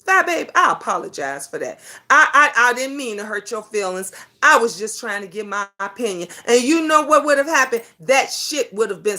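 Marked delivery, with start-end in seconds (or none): 0.1-6.3 toned-down, placating man's words; imitated apology. Voices a man's conciliatory apology.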